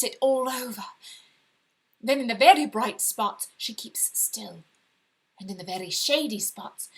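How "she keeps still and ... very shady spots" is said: whisper. A narrator's reading. Secret about the woman behind.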